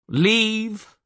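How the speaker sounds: sharp, loud order. Acted. Castellan dismissing his guards, sharp order. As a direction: command the guards to leave. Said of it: "he ordered the guards".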